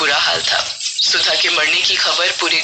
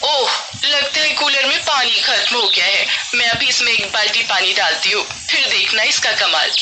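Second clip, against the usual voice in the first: boastful neighbour; 3 semitones higher than usual. Acted. Sudha fusses over her cooler.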